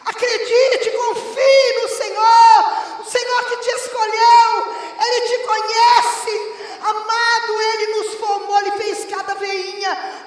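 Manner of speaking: high, loud revival shout; full-force preaching. Real, not acted. Preacher urging the church to find joy in the Lord, full-force shout. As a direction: preach it as a booming cry of faith.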